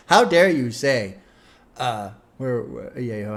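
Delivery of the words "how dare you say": slow, loud mock indignation; mock outrage. Host jokingly scolding a chatter, mock outrage. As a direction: scold with pretend outrage, drawing it out.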